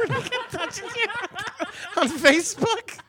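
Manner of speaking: mock high-pitched mom. Repeated in shrill mother voice.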